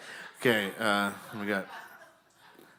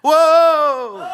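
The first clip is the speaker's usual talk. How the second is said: very high, loud pretend falling scream; hammed-up plunge off the stage; falling-off yell; 13 dB louder than usual. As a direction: holler a long "whoa" as you topple. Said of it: "So when I say".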